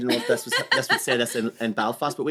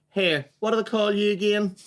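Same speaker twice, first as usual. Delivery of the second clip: granny voice; 8 semitones higher than usual. Retold or imitated. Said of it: "my granny would go like this here".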